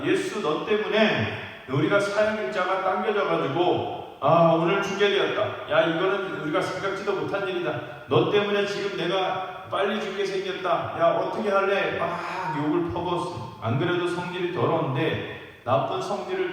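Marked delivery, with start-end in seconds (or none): 0.0-12.0 mild mock tirade, slightly raised voice; angry cursing. Criminal blames Jesus beside him, imitated angry cursing. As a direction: grumble blame at him, moderately heated. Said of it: "하나는 막 욕을 합니다".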